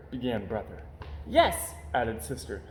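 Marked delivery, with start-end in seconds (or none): 1.3-1.8 cub voice. Acted. Cub adds to lie.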